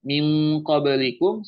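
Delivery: "Min" said as held "ming"; ng reading. Shown as a demonstration. Teacher giving NG example, "Min" as "ming". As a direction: sound NG at the end of "Min". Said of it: "ikhfanya yang dibaca N G".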